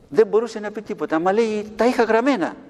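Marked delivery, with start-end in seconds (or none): 1.7-2.5 higher, louder demon voice; devil speaking through her. Retold or imitated. Priest voicing the devil for the children, higher and louder. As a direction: let the devil gloat through the woman. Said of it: "Άρχισε να μιλάει ο διάβολος".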